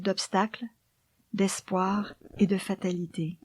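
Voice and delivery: poem recitation. Acted. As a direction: read the poem gently, almost whispered.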